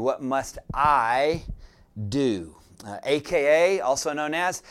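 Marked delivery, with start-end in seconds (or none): 0.0-2.6 "do" isolated after a pause, drawn out and falling; stress on DO. Shown as a demonstration. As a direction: hold back "do", then set it down with weight. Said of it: "I want to put emphasis on that word".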